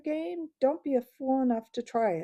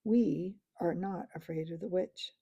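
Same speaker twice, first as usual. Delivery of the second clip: cold voice. Acted. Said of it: "said Knickerbock in a cold voice".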